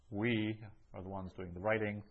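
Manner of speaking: "we" held and set apart; emphatic we. Shown as a demonstration. Teacher explains the emphatic pronoun, stressing "we". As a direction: put the weight on "we", then run on. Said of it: "the hemes there makes it emphatic".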